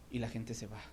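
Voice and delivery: soft, low "Y la gente se va"; quiet. Shown as a demonstration. Preacher repeating "Y la gente se va" softly to the church. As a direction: drop "Y la gente se va" to a hush. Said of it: "repeated line, first softer".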